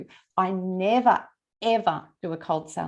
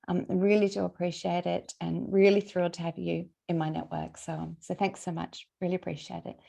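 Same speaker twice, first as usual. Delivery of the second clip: lower, easy, casual voice-note delivery; voice-note demo, voice dropping; 3 semitones lower than usual. Shown as a demonstration. Coach leaving a thank-you voice note for a new connection, lowered, casual voice. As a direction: let the voice settle down and soften towards each sentence end. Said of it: "your voice will go down".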